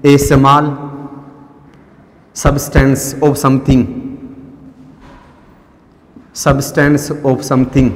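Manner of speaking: very slow, word by word for writing down; slow teacher dictation; dictation pace. Shown as a demonstration. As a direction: dictate it slowly so students can write. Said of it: "लिखिए".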